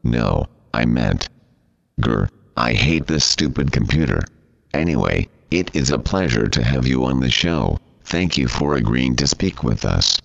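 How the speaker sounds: text-to-speech voice; robot voice. Pretend. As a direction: talks like a computer reader. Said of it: "this preposterous computer talking thing".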